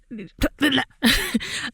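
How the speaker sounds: laugh. Real, not acted. Laughing at own flubbed line.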